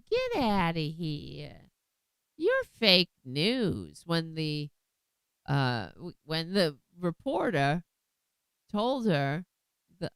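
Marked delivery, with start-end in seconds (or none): 0.1-4.0 slow, mocking brush-off; dismissive woman. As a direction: drag it out like a stubborn denier. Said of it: "who was like".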